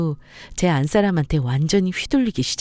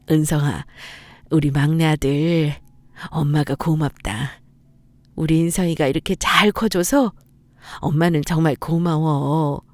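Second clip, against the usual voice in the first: tender thanks. Acted. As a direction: linger on each word, full of gratitude. Mother thanks youngest son.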